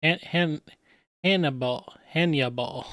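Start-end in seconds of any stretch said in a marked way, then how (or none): 1.2-1.9 "Hannibal" as AN-uh-bawl, with a full last vowel; alternative pronunciation. Shown as a demonstration. Wondering how they say it, "Hannibal" as AN-uh-bawl. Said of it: "I wonder how they say it". 2.1-2.9 "Hannibal" as HAN-yuh-bawl, with a y glide; alternative pronunciation. Shown as a demonstration. Wondering how they say it, "Hannibal" as HAN-yuh-bawl. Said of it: "I wonder how they say it".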